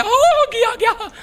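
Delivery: very high, drawn-out whoop; mock Punjabi exclamation. Preacher teasing Punjabis' way of reading scripture, high mock cry. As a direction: exclaim in exaggerated falsetto amazement.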